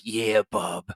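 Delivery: put-on Maine coast drawl; coastal Maine accent. Podcaster agreeing and mimicking their friend, mock Maine accent. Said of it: "he talks all fucking weird".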